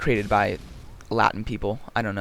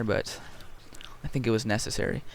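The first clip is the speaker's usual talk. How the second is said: whispered aside; 7 dB quieter than usual. Real, not acted.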